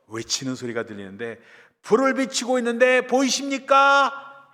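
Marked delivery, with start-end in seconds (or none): 1.8-4.5 high, loud, drawn-out call; acted rescuer calling across the rubble; shouting from afar. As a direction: call slowly so it carries. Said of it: "하면서 소리를 질렀어요".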